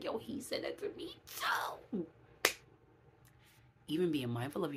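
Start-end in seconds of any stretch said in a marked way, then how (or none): 0.0-2.1 hushed confiding. Retold or imitated. Retold confiding to sister.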